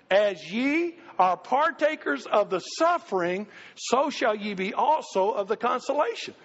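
slow congregational reading aloud; speaking in unison. Shown as a demonstration. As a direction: read together in a strong, united voice. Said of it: "a strong, united voice".

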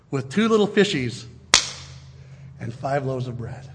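measured, lyrical recitation of a hymn text; reciting song lyrics. Acted. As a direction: speak the verses like a song.

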